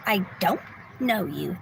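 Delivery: a hint of the stranger's flat denial; lightly voiced quote, pitch dropping on know you; imitating the woman. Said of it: "That's how she said it, exactly like that".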